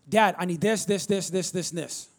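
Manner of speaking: put-on demanding teenage son, rattled off; mock a teen blurting demands at Dad; lightly imitated pushy kid listing wants; wrong tone. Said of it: "It was how he asked it that made all the difference. His tone and his pitch was wrong".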